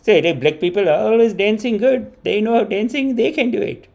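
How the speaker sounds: lightly voiced mom in broken English; imitating mom. Son imitates mom watching a dance clip, light voice. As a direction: mom gushing over the dancers, understated. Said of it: "my mom would see and be like".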